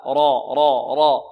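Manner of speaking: را thick with a dark back vowel; heavy raa. Shown as a demonstration. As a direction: correct it to a heavy, loud را. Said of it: "لا".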